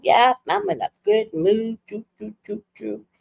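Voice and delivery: pleased mock-dad patter; best mood. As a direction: play dad lightly chipper, trailing into soft sing-song. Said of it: "my dad is in the best mood".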